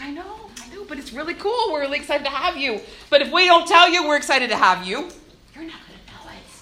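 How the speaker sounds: high, light put-on voice of a shy newcomer; lightly voiced nervous newcomer; mock nervous kid voice.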